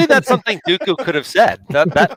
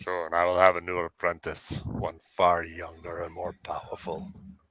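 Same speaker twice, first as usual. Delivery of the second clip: very low, deep, measured, drawn-out delivery; 10 semitones lower, 12 dB quieter than usual. Saying a Star Wars quote as Count Dooku: deep Count Dooku voice. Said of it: "Just make your voice deep".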